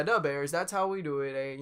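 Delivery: hammed-up Midwest accent; Chicago accent. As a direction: imitate a Chicago local, almost Wisconsin. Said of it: "almost Wisconsin".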